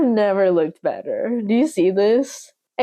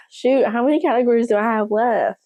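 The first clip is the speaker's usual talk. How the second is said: southern accent; 2 semitones higher than usual. Real, not acted. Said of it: "my little southern accent slipping out".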